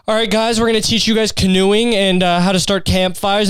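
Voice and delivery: high, cheery mock priest voice; a hammed-up priest promising camping. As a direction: put on a chirpy camp leader tone. Mocking the priests.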